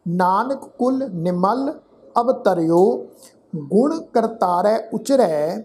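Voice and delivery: slow, deliberate chanting recitation; scripture recitation. Shown as a demonstration. Teacher recites Gurbani slowly to students. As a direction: lay out every syllable carefully.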